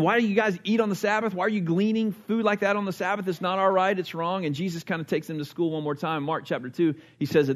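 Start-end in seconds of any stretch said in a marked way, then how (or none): 0.0-4.4 arguing Pharisees. Retold or imitated. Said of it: "And they're arguing".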